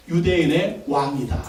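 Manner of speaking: solemn inscription reading; slow solemn read. Shown as a demonstration. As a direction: read 유대인의 왕이다 slowly as an inscription. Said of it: "그렇게 써붙였습니다".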